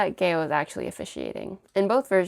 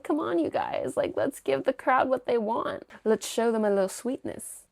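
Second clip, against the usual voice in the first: teasing MC; 6 semitones higher than usual. Retold or imitated. Officiant teasing couple on stage.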